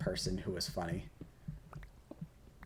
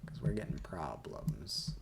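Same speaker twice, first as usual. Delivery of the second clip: whispering; 4 semitones lower, 4 dB quieter, slower than usual. Real, not acted. Whispered aside while playing.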